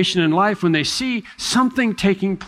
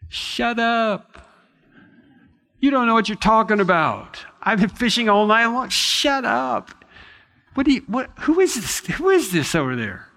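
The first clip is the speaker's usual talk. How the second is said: pitched way up, exasperated and dismissive; high-pitched hammed-up annoyance; mock irritated retort; 6 semitones higher than usual. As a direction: play a grumpy tired fisherman snapping at a stranger. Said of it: "You know what I would say? I'd say".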